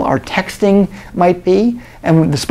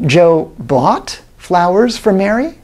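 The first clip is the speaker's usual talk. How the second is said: slow, with "for" lifted and leaned on; stress on FOR; slower than usual. Shown as a demonstration. Lecturer demonstrates emphasis on "for" for students. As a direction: punch the small word "for". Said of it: "sometimes I'm emphasizing different words".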